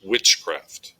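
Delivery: "Witchcraft" accented on witch, craft lighter; stress on first syllable. Shown as a demonstration. Teacher repeating a trochaic example, "Witchcraft" stressed on witch. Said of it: "gets that accent point".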